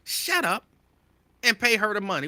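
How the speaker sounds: high-pitched sister's scold; mock scold. Sisters scolding the celebrity to pay, high scold. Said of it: "That's what y'all would say".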